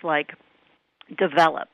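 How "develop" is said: develop stressed on the middle syllable; US pronunciation. Shown as a demonstration. Guest shows the way we pronounce it, develop stressed mid-word. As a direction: say develop as de-VEL-up. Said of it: "the way we pronounce it".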